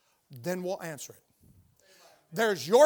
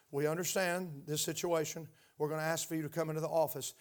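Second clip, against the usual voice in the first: calm reply; 5 semitones lower, 7 dB quieter than usual. Acted. Acts calm reply on phone.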